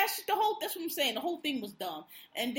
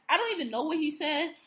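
whisper; 4 semitones higher than usual. Real, not acted. Whispered aside about husband.

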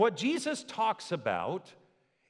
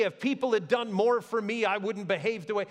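mock excuse; 5 semitones higher than usual. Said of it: "They didn't say".

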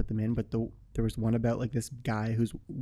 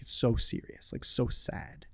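whispering; 6 dB quieter, slower than usual. Real, not acted. Wishing for a serious role.

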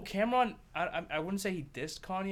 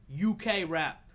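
mock London rapper accent; a hammy British accent on UK rap; bad British accent; 7 dB louder, much slower than usual. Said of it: "That was a bad accent".

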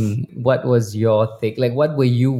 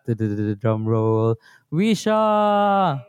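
announcer reveal; much slower than usual. Real, not acted. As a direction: announce her like a big reveal. Host announcing guest with fanfare.

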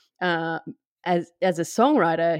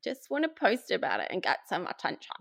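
mock attention seeker; 4 semitones higher than usual. Mocking attention-seeking poster.

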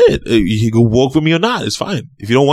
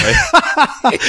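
laughing; 12 semitones higher than usual. Real, not acted. Teasing jab, then laughs.

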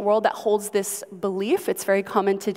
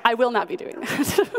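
laughing. Real, not acted.

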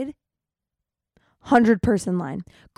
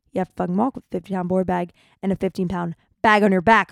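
fast exasperated rant; 4 dB louder, faster than usual. Retold or imitated. Exasperated retort about walking.

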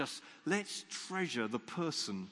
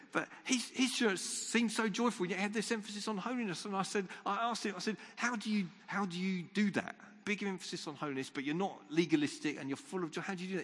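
excited retelling; 7 semitones higher than usual. Retold or imitated.

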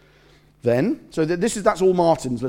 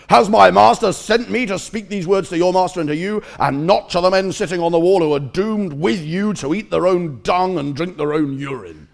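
contemptuous taunt; 3 semitones higher, 5 dB louder than usual. Acted. Taunting enemy commander quotes scripture.

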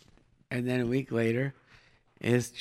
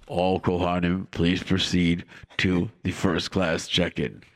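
low, slow announcer voice; airport announcer; 6 semitones lower, slower than usual. Pretend. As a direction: read it like a gate announcement.

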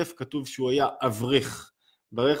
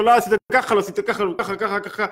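imitating scolding mother; 5 semitones higher than usual. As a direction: nag the child like an impatient mom. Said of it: "אמא צועקת לו".

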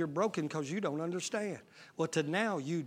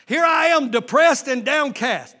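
loud slow shouted lament; 8 semitones higher, 12 dB louder, slower than usual. Acted. Preacher wailing David's despair at the crowd. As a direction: drag out depressed and downcast.

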